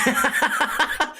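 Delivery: high burst of laughter; real laugh. Real, not acted. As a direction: crack up laughing. Laughing at own bit.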